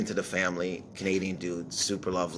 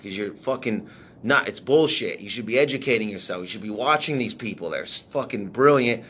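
imitating an angry manager; 3 semitones higher than usual. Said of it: "like, mad at me".

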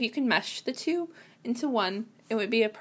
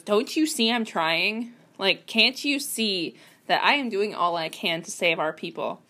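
mildly exasperated plea, leaning on the words. Acted. Character answers people constantly yelling at them, mildly exasperated. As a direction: plead with a touch of exasperation. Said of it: "out of exasperation".

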